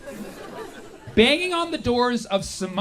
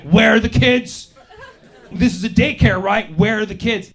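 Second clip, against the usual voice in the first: mock demand; 2 semitones higher, 6 dB louder than usual. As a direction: lean on the door and demand. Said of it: "being like".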